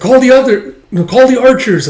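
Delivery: high, loud commanding yell; officer yelling for archers; shouted orders. Acted. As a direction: bark the order in panic.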